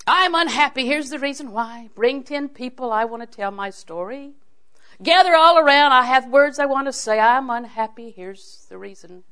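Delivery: hammed-up public announcement of misery; promoting distress. Preacher mocks people broadcasting their unhappiness, hammed-up distress. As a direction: proclaim your woe like a town crier, mock-grand. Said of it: "Sometimes we promote our distress".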